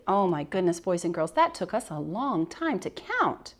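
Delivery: bright, exaggerated voice for young kids; kindergarten teacher voice. Shown as a demonstration. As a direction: sound amazed for a class of little ones. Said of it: "I'd say".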